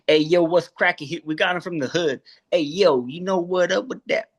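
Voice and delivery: light street-talk cat voice. Pretend. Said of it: "Say hi, Jesse".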